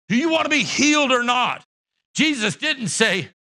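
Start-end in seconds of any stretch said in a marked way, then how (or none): 0.1-1.6 forceful demand. Shown as a demonstration. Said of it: "That's the manner in which it's written".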